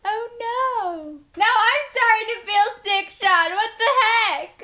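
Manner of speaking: high, loud puppet voice; squeaky felt-puppet panic; Muppet voice. Acted. Turned into Muppets.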